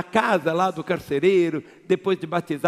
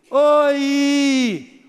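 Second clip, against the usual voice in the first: high, loud call into an echo; grito de oi; 7 semitones higher, 6 dB louder than usual. Shown as a demonstration. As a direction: call out Oi as if into a canyon. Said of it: "e você diz assim". (grito alto chamando o eco)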